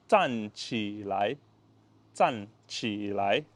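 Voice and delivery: zan qi lai spelled out slowly; slow Mandarin demo. Shown as a demonstration. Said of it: "stand up in Mandarin is called".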